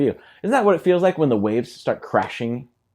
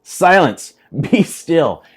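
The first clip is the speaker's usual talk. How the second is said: loud, firm command to the storm; commanding rebuke; 3 semitones higher, 6 dB louder, much slower than usual. Acted. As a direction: order the waves to be silent. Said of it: "rebuked the wind".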